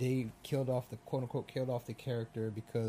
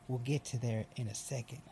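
put-on heavy Southern accent; 3 dB quieter than usual. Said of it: "with a heavy fucking accent".

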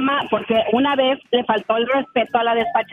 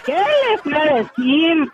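chuckling through the words, slower on the repeat; laughing; slower than usual. Real, not acted. Lucy laughs retelling her comeback, chuckling. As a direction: laugh at your own comeback.

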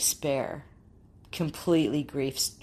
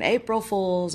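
mild mock yell, pitched up; mock scream; 5 semitones higher, 4 dB louder than usual. Speaker imagining dad bursting in alive, mild mock scream. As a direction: imitate a prankster's call without fully shouting. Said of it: "walk in any minute and scream".

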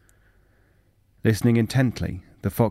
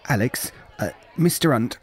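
hesitant; 4 semitones higher than usual. A narrator's reading. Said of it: "Grayson asked a little hesitantly".

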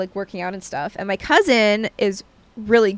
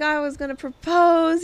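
mock suitor; 6 semitones higher than usual. Imitating the gym admirer's flirting.

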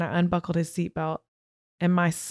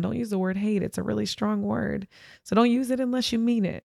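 lightly voiced mother, a little higher; gentle retold warning, rising at the end; mother's admonition; 3 semitones higher than usual. Mother teaching her child about a strong word, mild admonishing.

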